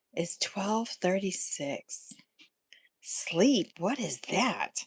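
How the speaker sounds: whispering. Real, not acted. Late at night, others asleep.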